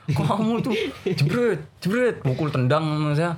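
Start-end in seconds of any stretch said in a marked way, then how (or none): 0.1-2.2 high-pitched telling-off with mimicked whacks; retold scolding, no real anger; mock scolding. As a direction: act out an exasperated teacher hitting out. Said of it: "dimarah-marahin dong sama saya".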